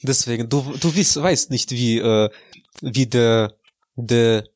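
lightly hammed-up Russian accent with broken German; fake Russian accent. Insists his Russian accent is real, still in mock Russian. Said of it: "dein russischer Akzent ... so fake klingt".

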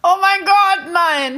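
high, loud gasp of disbelief; Oh my God, no, truly appalled; shocked disbelief. Real, not acted. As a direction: recoil in real shock. Listener shocked by the story.

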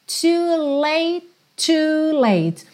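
"Too late" with the two T's merged into one. Shown as a demonstration. A teacher showing the single T in "too late". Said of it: "esses dois T's viram um T só".

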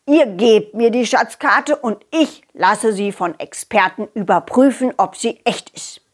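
lightly voiced sceptical old man; a touch of a grumbling neighbour waving it off; doubting grumpy neighbour. Neighbour wants the children's treasure map, mildly grumbling.

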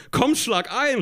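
high-pitched, eager storybook call. A narrator's reading. Kurt asks Tina to shake on it, calling out. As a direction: call it high, urging a partner on. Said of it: "ruft Kurt".

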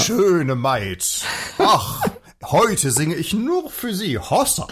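high, slow crooned serenade line; schlager serenade. Acted. Singer serenading his single audience member, slowly crooning. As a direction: woo the lone listener like a schlager star. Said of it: "Schlagersänger".

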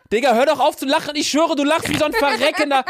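high, giggly complaint; laughing. Real, not acted. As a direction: laugh while scolding.

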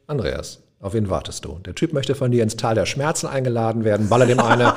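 a hint of a devil on the shoulder, starting hushed and low; dark shoulder angel. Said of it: "Das eine war schwarz gekleidet auf der rechten Schulter und das sagte".

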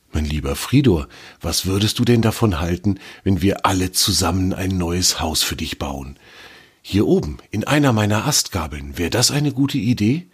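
lightly voiced tree comforting the squirrel; kindly old tree. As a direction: offer help like a patient elder. Old tree Torm offers help.

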